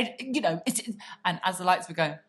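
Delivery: ordinary talk, nothing marked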